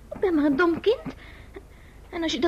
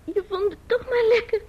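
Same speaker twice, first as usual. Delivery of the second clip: tearful; 5 semitones higher, slower than usual. Acted. Ruzie, vrouw in tranen.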